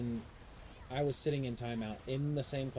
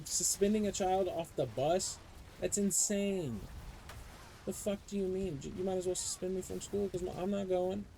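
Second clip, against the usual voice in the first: outraged; 6 semitones higher than usual. Real, not acted. Outraged at the suspension.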